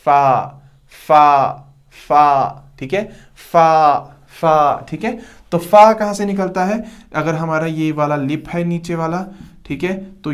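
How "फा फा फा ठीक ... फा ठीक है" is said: दांत और होंठ से फा; letter demo. Shown as a demonstration. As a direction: breathe फा between the teeth and the lip. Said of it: "देखिए".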